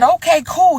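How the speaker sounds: a put-on high man's voice, brushing it off; mock date voice. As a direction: imitate him, high and breezy. Mimicking date's voice on phone.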